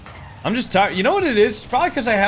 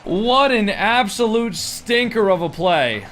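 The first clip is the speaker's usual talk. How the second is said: play-by-play. Acted. Live match commentary.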